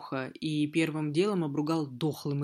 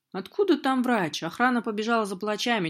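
higher, louder, quick; urgent excited; 5 semitones higher, 4 dB louder than usual. Acted. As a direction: rush the alarming news. Spirit reports urgent news, excited.

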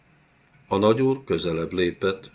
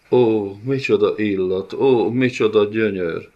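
a monstrous lord relishing a scent, a little louder; gloating villain; 3 semitones higher, 5 dB louder than usual. Acted. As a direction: savour every word like a brute. Villain savours the smell. (kéjesen élvezkedő gonosz úr)

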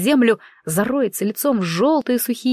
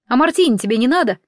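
mocking; 3 semitones higher, faster than usual. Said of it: "насмешливо ответила я".

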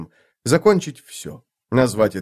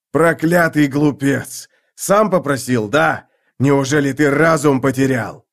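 angry; 3 semitones higher, 4 dB louder than usual. Acted. Draconus rages at Hood.

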